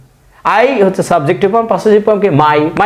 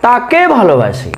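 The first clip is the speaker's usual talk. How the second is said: slow example line; 5 semitones higher, slower than usual. Shown as a demonstration. Teacher reads example slowly.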